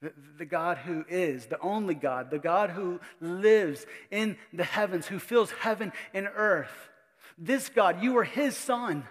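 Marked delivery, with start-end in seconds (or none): 2.3-9.0 rising preaching climax. Real, not acted.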